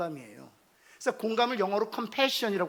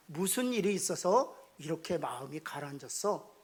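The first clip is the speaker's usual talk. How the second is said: soft, lower caring question; gentle asking; 5 semitones lower, 4 dB quieter than usual. Acted. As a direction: ask tenderly what happened. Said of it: "라고 묻는 거예요". (낮고 부드럽게 걱정하듯 묻기)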